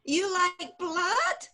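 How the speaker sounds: Jewish mother with a Yiddish lilt; worried Yiddish mama, building to cries; yiddish accent. Acted. Plays Jewish mother in improv.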